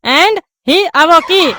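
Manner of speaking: awoke said as अवोकी, with an extra i at the end; wrong pronunciation. Acted. Pupil misreading awoke, slow and with an added i. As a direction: read awoke slowly as a-wo-ki. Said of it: "उसको अवोकी नहीं".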